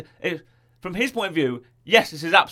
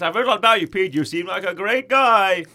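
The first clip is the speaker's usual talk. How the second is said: brainwashed cheer; 4 semitones higher, 4 dB louder than usual. Retold or imitated. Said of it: "and goes".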